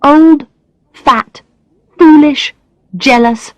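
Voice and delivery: high, tight list of self-insults; bitter self-pity. Acted. Alex alone at night berating herself, high bitter self-pity. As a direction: spit each word out in despair.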